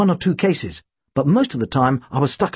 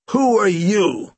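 demanding; 5 semitones higher, much slower than usual. Acted. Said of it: "he demanded".

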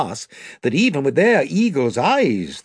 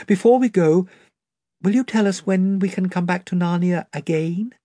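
put-on higher, eager girl begging; Lucy pleading; 7 semitones higher than usual. A narrator's reading. Lucy begs Aslan to let them return, pleading girl voice. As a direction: plead like a child who wants it soon.

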